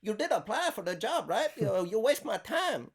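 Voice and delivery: high, loud mock-indignant Asian accent. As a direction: scold like an offended caller in a put-on Asian accent. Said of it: "she heard me do the accent".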